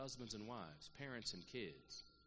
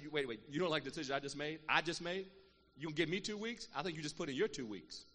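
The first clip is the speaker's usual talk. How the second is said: louder, fast, indignant comeback; 6 dB louder than usual. Retold or imitated. Retelling her comeback to an employee's ultimatum, indignant. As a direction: catch them out, incredulous then cutting. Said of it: "I said".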